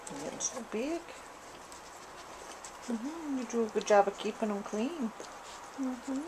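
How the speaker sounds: soft, tender murmur to the dog; tender coo. Real, not acted. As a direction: hush your voice for the nursing mom. Cooing to nursing mother dog.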